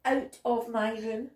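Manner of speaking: loud story-voice shout. A narrator's reading. Child ordering Bob out of the room, shouted. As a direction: shout it as a cross child, loudly. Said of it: "I shouted".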